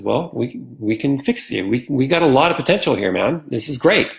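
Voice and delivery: encouraging, mildly excited pitch to a patient; upbeat retelling of a hopeful promise; retold excitement. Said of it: "I showed him my excitement".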